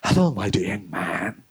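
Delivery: slow, low-pitched mock foreigner greeting; measured, slightly hammed-up foreign gentleman; white foreigner. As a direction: play a white visitor addressing a local youth. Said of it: "ஒரு வெள்ளைக்காரன் உங்க முன்னுக்கு வந்து நிக்கான்".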